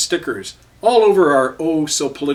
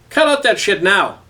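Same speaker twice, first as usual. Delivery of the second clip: high, loud angry shout; angry yell across the street; 7 semitones higher, 4 dB louder than usual. A narrator's reading. Frank yells at the cops beating a man, angry shout. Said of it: "Frank yelled again".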